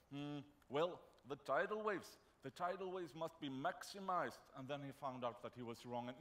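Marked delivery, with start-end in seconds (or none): 0.1-4.4 excited student. Retold or imitated. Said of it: "He said".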